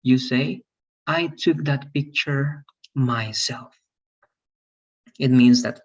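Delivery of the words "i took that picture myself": slow, with "myself" set apart at the end; deliberate example sentence, weight on "myself"; emphatic MYSELF. Shown as a demonstration. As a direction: stretch it out and land on "myself". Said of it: "you want to emphasize that you".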